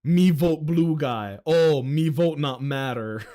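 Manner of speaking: slow, lightly voiced dim-witted voter; dumb caveman voice. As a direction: play a simple-minded caveman. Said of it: "They literally just go".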